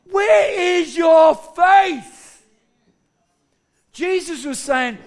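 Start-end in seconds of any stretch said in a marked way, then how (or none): 0.0-2.4 slow, higher, ringing challenge; challenging question. Acted. Jesus turns to question his frightened disciples, challenging. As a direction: ask it slowly and forcefully.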